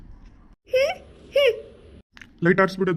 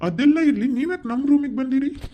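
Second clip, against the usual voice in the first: higher, sharply raised voice; indignant challenge; 6 semitones higher than usual. Acted. Guest confronting a stranger in his room, indignant. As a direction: demand an explanation, indignantly.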